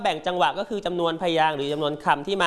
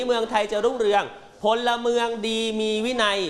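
slow model reading; 3 semitones higher than usual. Shown as a demonstration. Teacher modelling the slogan for her class, slow and clear. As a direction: read the slogan slowly, each word clear, for children to follow. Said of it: "ลองดูซิลูก คำขวัญนี้".

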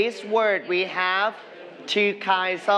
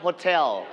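Hotel with the stress on "tel"; stress on second syllable; 3 semitones lower than usual. Shown as a demonstration. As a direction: lean on the last syllable of Hotel. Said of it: "straight on the second syllable".

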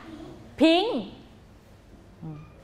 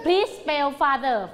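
slow clear dictation; much slower than usual. Shown as a demonstration. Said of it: "คือให้สะกดคำว่า father".

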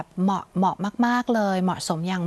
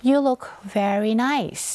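slow model sentence; much slower than usual. Shown as a demonstration. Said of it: "teacher models example sentence".

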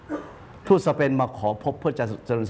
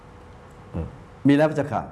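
humble envoy; much slower than usual. Retold or imitated. Envoy answering the king.

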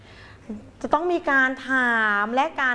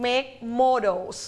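"make models" with a slow, drawn-out "models"; stress on models; much slower than usual. Shown as a demonstration. Teacher modelling stress for pupils to repeat. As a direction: lean into "models" and say it slowly. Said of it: "stress พยางค์นั้น".

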